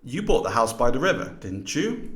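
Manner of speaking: "bought" lifted as the main accent; stress on bought. Shown as a demonstration. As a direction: check the fact, leaning on "bought". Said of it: "known as contrastive stress".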